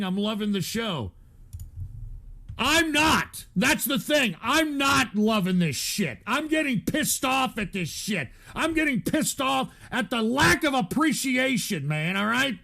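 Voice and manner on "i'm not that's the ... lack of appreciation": angry rant. Real, not acted. Streamer ranting angrily at the chat about being unappreciated. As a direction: vent it straight at the chat.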